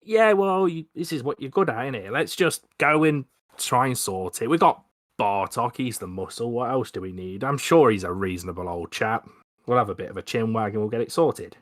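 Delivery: put-on loose Cockney accent, lively; cheerful London Cockney chap. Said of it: "really bad Cockney accent".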